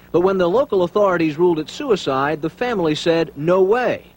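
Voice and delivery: measured TV report delivery; news reader. Acted. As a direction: tell it like a field reporter. TV reporter's filed story.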